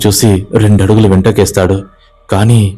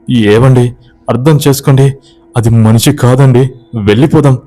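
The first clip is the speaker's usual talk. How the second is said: higher, urgent pleading cry; 4 semitones higher than usual. Acted. Wife crying out to husband to leave, pitched high. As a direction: beg him to leave, pitched up. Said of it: "అని అరుస్తూ ఉంది".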